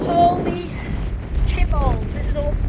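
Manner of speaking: loud, high, delighted outburst; thrilled exclamation. Real, not acted. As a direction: blurt it out in sheer delight. Thrilled on windy ridge top.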